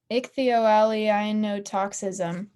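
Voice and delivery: ichthyolianotoxism spelled out slowly, syllable by syllable; careful pronunciation. Shown as a demonstration. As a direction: sound out ichthyolianotoxism slowly and loudly. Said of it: "I try and pronounce this".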